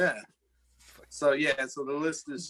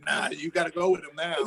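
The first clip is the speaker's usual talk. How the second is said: exaggerated British accent voice; mock British voice. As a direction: put on a fancy British voice. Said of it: "Fuck that voice".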